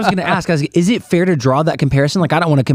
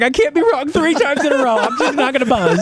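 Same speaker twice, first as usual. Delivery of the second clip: retold inner resolve; 12 semitones higher than usual. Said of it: "I was like".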